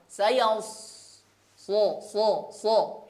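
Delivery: so said full and heavy, the sod thick. Shown as a demonstration. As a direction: say so thick and strong. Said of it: "huruf sod termasuk huruf yang tebal". (so tebal dan kuat)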